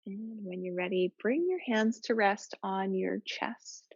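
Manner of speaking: calm, even yoga-teacher voice with long pauses; settled, level meditation cueing; guided relaxation. Real, not acted. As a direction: gently guide them into their breath, unhurried. Leads breathing relaxation.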